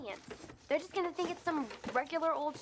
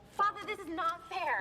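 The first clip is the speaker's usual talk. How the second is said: protesting. Acted. Student protests to the priest.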